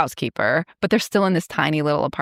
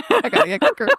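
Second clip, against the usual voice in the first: much higher, pushed repeat of "I gotta get quicker"; exasperated repeat; faster than usual. Real, not acted. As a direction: say it again, pitched way up in frustration. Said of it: "Oh my God, I gotta get quicker".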